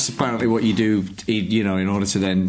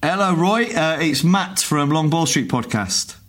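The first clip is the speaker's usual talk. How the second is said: bright phone voice; 6 semitones higher than usual. Acted.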